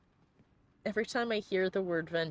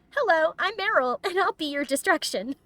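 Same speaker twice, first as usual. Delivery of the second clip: high, mock-heroic villain line; hammed-up battle taunt; combat line; 10 semitones higher, 7 dB louder than usual. Quoting the character's combat line with mock menace. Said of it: "I have a new combat favorite line".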